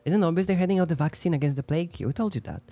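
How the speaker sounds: a hint of a heated street argument; voicing game characters. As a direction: play the quarrelling townsfolk and guard, mildly. Reads crowd scene dialogue.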